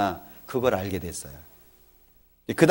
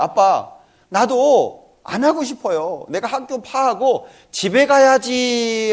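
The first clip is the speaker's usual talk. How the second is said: put-on pleading child's promise, higher and slow; imitating his son; 8 semitones higher, 4 dB louder, slower than usual. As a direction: mimic the boy's earnest plea, drawn out. Child's promise retold by father. (아들 흉내로 느리게 애원하듯)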